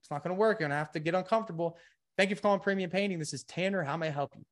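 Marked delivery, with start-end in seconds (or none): 2.2-4.4 quick, bright receptionist greeting; professional phone greeting. Shown as a demonstration. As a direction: answer the phone like a pro. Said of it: "This is effective. This is professional".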